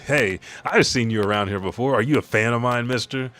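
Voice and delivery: put-on cheerful kid voice. Voicing cheerful kid Brooke.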